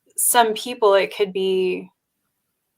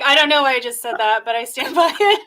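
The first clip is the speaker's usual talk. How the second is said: laughing quote; 3 semitones higher, faster than usual. Retold or imitated. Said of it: "and you're like".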